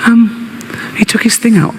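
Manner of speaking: a hint of a six-year-old; little girl voice. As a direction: daughter tells her father what happened, childlike. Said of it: "She's only six".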